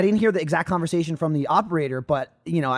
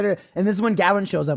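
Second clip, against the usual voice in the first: normal talking voice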